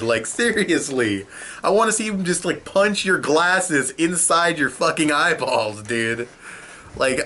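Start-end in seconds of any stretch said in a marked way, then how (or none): 1.6-6.3 high, slow, relishing threat; gleeful fury. Real, not acted. Reviewer wishing Luffy would punch Doflamingo, high and slow. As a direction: savour the revenge fantasy.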